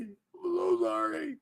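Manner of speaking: very high, slow, drawn-out "so"; slow put-on apology. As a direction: stretch it out in a silly character voice. Repeated apology, different voice.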